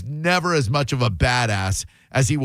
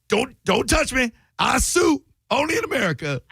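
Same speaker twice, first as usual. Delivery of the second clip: much higher whiny squeal; squealing promoter; 10 semitones higher than usual. Retold or imitated. Host imitates the Don King character, high whiny squeal. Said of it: "he was like".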